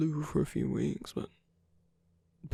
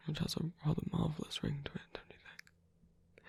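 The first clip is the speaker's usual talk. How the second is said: teasing whisper. Acted. Teasing aside about shared bed.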